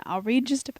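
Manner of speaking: hiccupping mid-sentence; talking through hiccups. Real, not acted. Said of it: "she's got the hiccups".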